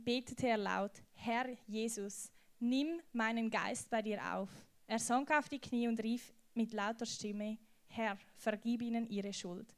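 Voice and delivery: slow, deliberate scripture reading; Bible reading. Acted. Pastor reading Stephen's story aloud to the youth, slow solemn reading. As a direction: read the martyr's story with weight, taking your time.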